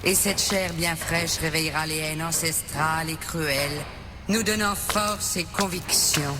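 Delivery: low, cold speech; low, sinister pronouncement; villain's monologue. Acted. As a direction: expound a grand plan in a low, controlled voice. Villain expounds her grand plan.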